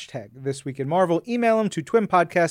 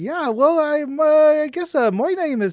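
put-on higher, folksy Minnesota accent; 9 semitones higher than usual. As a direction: sign off like a cheerful Minnesotan. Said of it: "in this whole entire accent".

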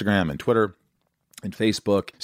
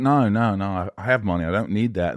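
lightly imitated Australian accent; a half-hearted go at an Australian accent; terrible Australian accent. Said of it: "terrible Australian accent I'm doing".

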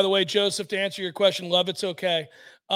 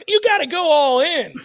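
urging; 5 semitones higher, 6 dB louder than usual. Retold or imitated. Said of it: "I was like".

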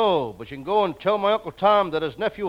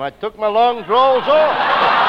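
mock Texan drawl; 5 semitones higher, 8 dB louder, much slower than usual. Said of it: "All the Texas men have long drawls".

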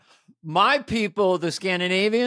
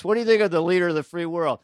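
pretend candid doctor; 2 semitones higher than usual. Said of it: "what is the doctor supposed to say".

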